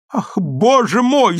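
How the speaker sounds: irritated cry. Acted. Wife fed up with her husband, loud irritated cry. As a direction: snap it out in exasperation. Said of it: "закричала раздражённо Адель".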